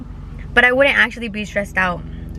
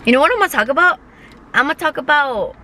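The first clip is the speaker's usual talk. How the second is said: bright, higher teasing question; excited; 4 semitones higher than usual. Real, not acted. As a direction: pitch it up with excitement. Excited topic announcement.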